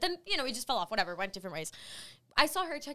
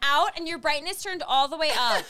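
higher, louder check-in announcement; calling to queue; 4 semitones higher, 5 dB louder than usual. Retold or imitated. Volunteer telling the queue to ready codes, calling out. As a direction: project instructions to the whole line. Mock announcement to ticket line.

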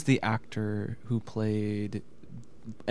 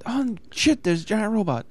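mock surprise; 9 semitones higher than usual. Quoting movie line.

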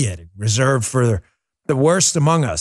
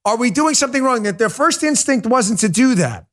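impassioned; 6 semitones higher than usual. Real, not acted. Impassioned rant rising.

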